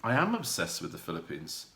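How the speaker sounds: quiet candid admission; low, sincere confession. Real, not acted. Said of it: "And I have to say that".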